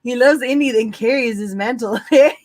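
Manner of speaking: bad Canadian accent, reading aloud. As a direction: read it in a hammy Canadian accent. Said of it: "the worst Canadian accent ever".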